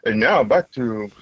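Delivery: lightly put-on broadcaster; hint of a radio host handing back; podcasting voice. Shown as a demonstration. Asked by the host to show his podcasting voice, lightly announcer-like. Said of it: "let's hear your podcasting voice".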